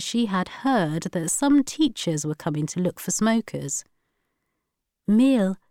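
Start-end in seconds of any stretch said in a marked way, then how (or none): 5.1-5.6 impatient. A narrator's reading. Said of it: "she said impatiently".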